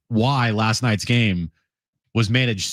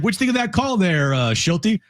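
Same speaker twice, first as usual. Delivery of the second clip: ventriloquist puppet voice; 7 semitones higher than usual. Pretend. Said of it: "He has a Mike Schilt puppet".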